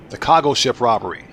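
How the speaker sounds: "cargo" said the Baltimore way, a rounded kaw-go; northeastern accent slip. Real, not acted. Gamer reading chat, northeastern "cargo" slips out. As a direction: northeastern "cargo" slipping out unguarded. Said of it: "that's my northeastern accent getting out".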